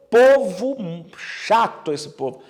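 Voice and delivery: slow, fed-up drawl; a slow fed-up aside about the people; exasperated. Real, not acted. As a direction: sigh it out, tired of them.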